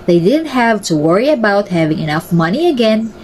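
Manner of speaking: lively storybook reading; reading a fairy tale to kids; story narration. A narrator's reading. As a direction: tell the tale to children. Reads a children's story aloud.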